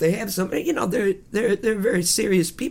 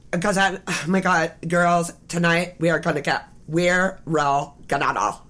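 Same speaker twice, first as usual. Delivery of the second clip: put-on bubbly sorority girl. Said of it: "this woman who's got kind of a, like, a Valley Girl".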